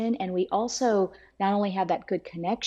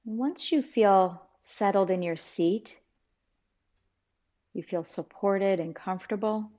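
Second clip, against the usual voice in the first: unhurried meditation guide with long pauses; calm, measured guidance, leaving space between phrases; guided meditation. Acted. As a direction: ease listeners into stillness, phrase by phrase.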